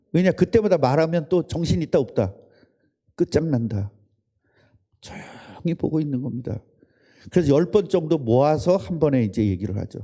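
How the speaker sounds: ordinary talk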